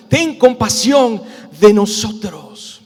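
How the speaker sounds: loud, slow, drawn-out plea; acted desperate shout; shouting harder. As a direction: cry out for mercy, stretching the words. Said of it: "ellos gritaban con más fuerza".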